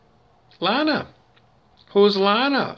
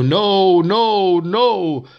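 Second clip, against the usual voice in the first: louder, higher repeated no; mock devil protest; 5 semitones higher, 4 dB louder, much slower than usual. Shown as a demonstration. Devil shouting no over the preacher. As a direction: cry out no three times. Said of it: "and then they'll go".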